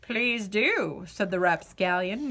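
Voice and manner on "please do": grinning. Acted.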